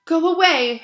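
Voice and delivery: high, tight little squeak. A narrator's reading. Hermione hides in the stall and squeaks at the boys. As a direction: squeak it out, hiding. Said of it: "Hermione squeaked".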